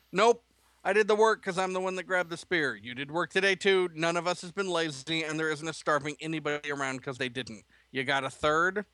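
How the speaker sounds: put-on frustrated teen. Teenage son argues with his father, exasperated. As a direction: push back hard, fed up.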